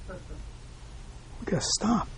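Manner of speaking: slow, voiceless whisper; very slow whispered urging; intimate whisper. Real, not acted. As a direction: draw the listeners in with a hush. Teacher stressing stopping to reflect.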